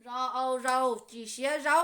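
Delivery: loud, measured "รอเอาเรา จีเชียเรา"; spelling-out recitation. Shown as a demonstration. Teacher modelling spelling for learners, loud recitation of "รอเอาเรา จีเชียเรา". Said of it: "สระเอาลงไป".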